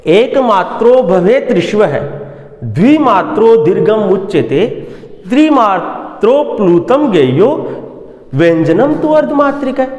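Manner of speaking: measured chanting of the verse; shloka recitation. Acted. (श्लोक का लयबद्ध पाठ)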